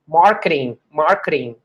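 "Marketing" with the t tapped like a light r; marketing with a flapped t. Shown as a demonstration. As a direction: say "Marketing" with an r-like tap in the middle. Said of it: "é tipo um R aqui, não um T". ("Marketing" com t batido como r)

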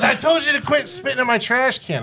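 a lightly voiced angry woman inmate; imitating Gannon. Inmate Gannon scolding him.

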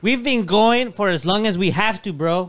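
slurring words. Real, not acted. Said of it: "He's slurring his words already".

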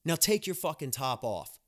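hammed-up offended diva, slow and loud on "Excuse me?"; overacting a snooty indignant tirade; mock outrage. Nurse imagines telling off a patient, in a mock outraged voice. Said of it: "should have literally have went off".

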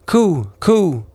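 high, cooing like a wood pigeon; a pigeon's high coo. A narrator's reading. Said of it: "Then the wood pigeon said".

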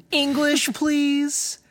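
high, laughing English please; laughing quote. Retold or imitated. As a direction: crack up while quoting the line. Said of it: "And then she goes".

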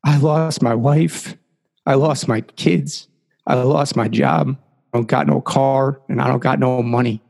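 hint of a forlorn drunk listing losses; big drunk man. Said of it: "the big drunk guy goes".

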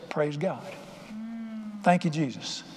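softly spoken, relieved praise; quiet thanks. Retold or imitated. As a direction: give thanks under a hush. Retelling quiet relief after praying.

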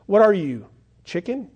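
mild taunt jumping up high at the end; lightly acted playground jeer; mocking taunt. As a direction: tease with a high questioning lift. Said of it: "he starts to mock him".

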